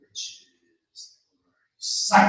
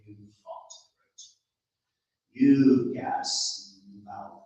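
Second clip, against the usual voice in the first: slow, grumbling scolding; an ogre berating a fool; lightly voiced scolding ogre; 7 dB louder, slower than usual.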